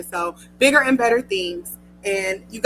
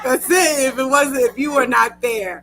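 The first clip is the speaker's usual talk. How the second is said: tearful, voice catching; fighting back tears while thanking; emotional goodbye thanks; choked up. Real, not acted. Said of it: "tearful thanks on last show".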